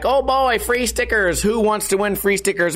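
high hammed-up game-show hype; fake-excited sticker giveaway; mock excitement.

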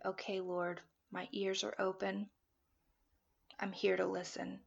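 surrendering quietly in prayer; prayerful, open. Retold or imitated. Praying to the Lord that she is listening, soft. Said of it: "I say".

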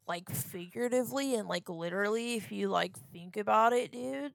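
lightly put-on stoner-dude voice rising at the end; mock dude talk. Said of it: "that's how I sounded just now".

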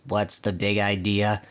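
level mocking echo; lightly imitated echoing spring; spring's echo. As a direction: parrot it back in monotone. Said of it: "the echo of his voice".

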